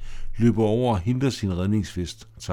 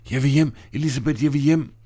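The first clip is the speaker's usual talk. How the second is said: frightened plea; 5 semitones higher, faster than usual. Acted. Tina panics in the storm.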